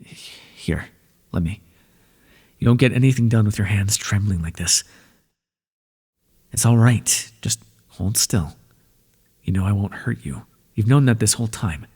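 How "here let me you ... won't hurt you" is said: calm them as you take their hands. Acted. Washing the trembling listener's hands.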